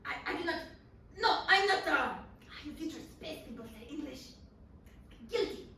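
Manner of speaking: a hint of a French accent in broken English; French-accented Napoleon, lightly done. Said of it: "he's saying with that accent".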